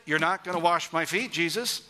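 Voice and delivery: Peter digging in his heels; firm disciple refusing his Lord; emphatic refusal. Acted. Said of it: "This is an emphatic".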